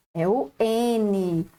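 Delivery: ordinary delivery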